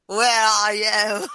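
slow, drawn-out mock Australian accent; imitated Australian accent. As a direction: mimic an Australian accent, stretching each word. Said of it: "I just did an accent".

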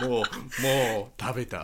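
laughing mock broken Japanese. Joking about playing dumb, laughing mock foreigner. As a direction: giggle the broken phrase.

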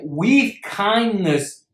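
slow, deliberate weight on "with kindness"; emphasis on KINDNESS. Real, not acted. Speaker telling listeners how to discipline the mind, emphatic on "with kindness". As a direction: stress "with kindness" so it stands out. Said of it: "I strongly emphasize this word".

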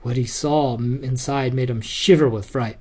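lively bedtime story read; story narration. Acted. Dad reading Jack and the Beanstalk to his son, lively storytelling. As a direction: read it out to a little boy.

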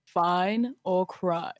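slow, menacing title read. Shown as a demonstration. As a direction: say it slow and threatening. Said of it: "that sounds kinda menacing".

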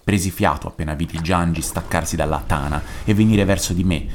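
measured, even reading aloud; composed short-story reading; story narration. A narrator's reading. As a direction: narrate a suspense tale with steady control.

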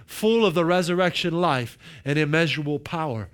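preacher proclaiming a Bible passage; emphatic scripture reading. Acted. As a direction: read it as a declaration, lifting the key phrases. Reads the passage at length.

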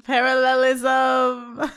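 slow, loud, stretched-out exclamation; real excited shout. Real, not acted. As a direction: shout it like a eureka. Reacting to the callback.

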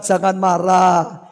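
low, measured mentor's voice; calm reply. Acted. Mentor calms the angry boy.

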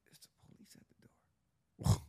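hushed, slow whisper of alarm; retold whisper. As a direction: whisper the warning slowly, not to be overheard. Girlfriend warns police at door.

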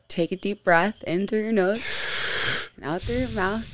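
soft whisper, calming him down; whispered calming advice. Real, not acted. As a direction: breathe it out like a therapist. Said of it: "I think you just need to".

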